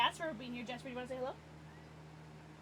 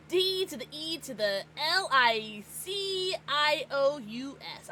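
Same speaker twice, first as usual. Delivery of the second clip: Bruce Almighty spelling; 3 semitones higher, slower than usual. Retold or imitated. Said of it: "I was trying to do a Bruce Almighty".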